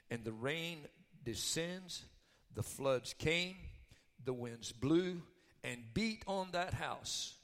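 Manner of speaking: slow, measured Bible reading; scripture reading. Acted. Preacher reads Jesus' parable to congregation, slow measured scripture reading. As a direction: read out phrase by phrase with weighty pauses.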